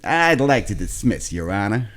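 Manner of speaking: slow put-on American drawl; American twang. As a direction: plead to the judge with an American twang. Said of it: "add a little bit of an American thing in there, a little bit of a twang".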